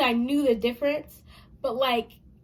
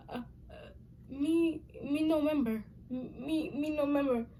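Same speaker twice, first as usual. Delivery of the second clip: lightly voiced baby talk, a bit higher; 3 semitones higher, 5 dB quieter than usual. Child faking baby talk to dad at the locked door. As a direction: play dumb like a toddler. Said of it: "I started talking like a baby".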